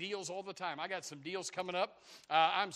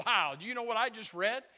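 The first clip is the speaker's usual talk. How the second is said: wowed, slightly raised voice; eager exclamation, a little higher; acted excitement; 4 semitones higher, 5 dB louder than usual. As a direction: say it like an amazed reader sharing news. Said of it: "get excited and say".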